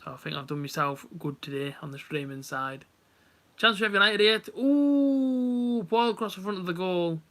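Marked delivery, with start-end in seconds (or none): 3.6-7.2 excited. Real, not acted. Live chance in the match.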